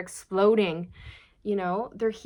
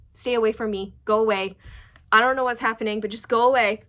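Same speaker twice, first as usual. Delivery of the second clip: a louder, half-laughing go away; louder mock plea to be left alone; mock pushing away; 7 dB louder, faster than usual. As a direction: brush the spouse off, hammed up. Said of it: "didn't wanna touch them".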